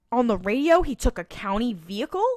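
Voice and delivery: imitated incredulous checking, pushed on the first words; incredulous question. Sam questioning Diana about the county vehicle, incredulous. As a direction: echo it back in disbelief. Sam queries the news back.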